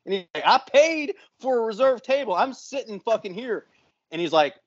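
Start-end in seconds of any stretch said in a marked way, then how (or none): 0.5-3.7 higher-pitched mock indignation; drunk friend's protest. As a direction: imitate a drunk pal insisting on his seat. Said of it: "he's had too much to drink".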